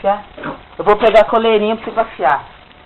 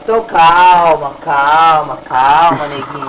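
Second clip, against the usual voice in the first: low, slow calming voice; soothing; 5 semitones lower, much slower than usual. Real, not acted. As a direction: settle the dog down gently. Soothing the frightened dog.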